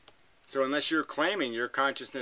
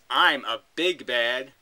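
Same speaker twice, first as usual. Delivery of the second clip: big bad; 7 dB louder, slower than usual. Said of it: "It says".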